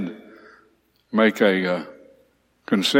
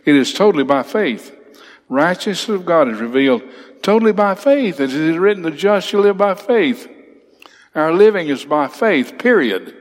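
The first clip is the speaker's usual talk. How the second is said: higher and rising, driving the point home; emphatic; 6 semitones higher than usual. Shown as a demonstration. Teacher to class, hammering home that living is by faith, emphatic. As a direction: preach it with growing conviction. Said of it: "it is a, an emphatic expression".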